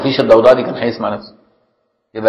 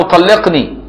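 lightly voiced wife, higher, demanding "طلقني" with a falling end; mock wife's demand; 6 semitones higher, slower than usual. Wife to husband, asking for divorce, in a higher mock voice.

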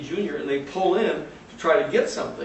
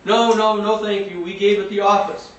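mock polite brush-off; 4 semitones higher, 5 dB louder than usual. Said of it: "gonna start putting him on".

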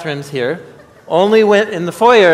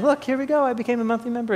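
higher, playful show-off voice; mock proud announcement; 8 semitones higher, 5 dB quieter, faster than usual. Telling donors what to say at the table, in a higher mock-proud voice. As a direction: hold up the phone and brag brightly. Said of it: "show 'em your phone saying".

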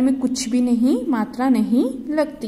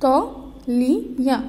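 "तौलिया" drawn out slowly; slow model reading; much slower than usual. Shown as a demonstration. Teacher reading "तौलिया" from the book to children, slowly stretched. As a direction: stretch "तौलिया" for the class to follow. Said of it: "अब आपकी book में देखिए".

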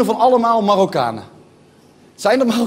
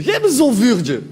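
moroccan dutch street. Retold or imitated. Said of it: "Ook een zolvuurtje".

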